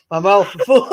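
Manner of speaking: mock deep mouthful voice; imitating friend. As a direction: imitate her with mouth full. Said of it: "She did a man's one".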